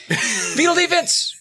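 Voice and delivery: high, drawn-out battle cry; playful mock scream. Player warning his friend to drop down, mock scream. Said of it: "So he would scream".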